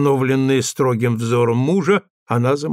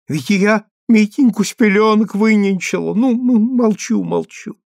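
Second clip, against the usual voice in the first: high-pitched plaintive objection, subsiding at the end; protest, then back down; wounded old wife giving in; hurt protest; 8 semitones higher than usual. A narrator's reading.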